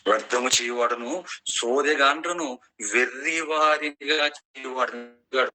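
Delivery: slow, drawn-out solemn reading; scripture declamation. Acted. Preacher reading God's verdict on soothsayers, solemn and stretched out. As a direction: stretch each phrase like a proclamation.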